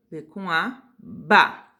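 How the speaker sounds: "ba" dito forte e destacado; sílaba falada alto e clara, como professora; sílabas em voz alta. Shown as a demonstration. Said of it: "a gente vai falar as sílabas em voz alta". (pronunciando "ba" bem alto e separado)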